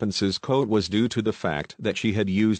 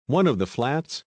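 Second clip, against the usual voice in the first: breathless; 5 semitones higher than usual. Acted. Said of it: "demanded breathlessly".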